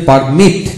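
"পারমিট" with weight on its ending, mit; stressed final T. Shown as a demonstration. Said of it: "টি উচ্চারণ হলো".

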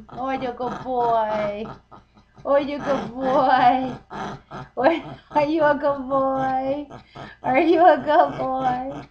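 bright singsong praise for a dog; pet praise voice. Real, not acted.

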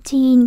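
put-on "Teen" with the ee held a little longer; long vowel. Shown as a demonstration. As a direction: stretch "Teen" slightly. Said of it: "cũng đọc dài ra một tí xíu". (kéo dài "Teen" một chút)

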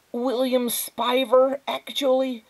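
slow, high, precise self-introduction; fussy, precocious child voice; high, thin boy's voice. A narrator's reading. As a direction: correct them with prim precision. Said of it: "His voice was high and thin".

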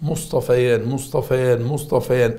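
"مصطفيان" repeated evenly with a clear y glide; teacher modelling "مصطفيان" with an audible ya; correct dual form. Shown as a demonstration. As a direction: drill "مصطفيان", ending in "-ayan". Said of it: "الصح".

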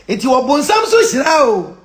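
slow, drawn-out statement; slow and forceful; emphatic declaration. Real, not acted. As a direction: stretch it out firmly. First emphatic take.

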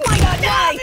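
high, loud anguish of a doomed toy; mock anguished shout. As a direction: cry to the heavens.

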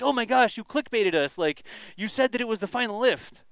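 hammed-up viewer accusing clickbait; mock annoyed viewer. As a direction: whine it like a fed-up fan. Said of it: "They're like".

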